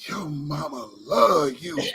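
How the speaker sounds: slow, drawn-out Gump voice; hint of Forrest Gump, slow; lightly voiced Gump line; Forrest Gump quote. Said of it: "he say".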